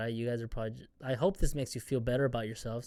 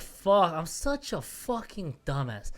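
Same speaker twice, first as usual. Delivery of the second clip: self-scolding; 2 semitones higher, slower than usual. Retold or imitated. Scolding himself in retold moment.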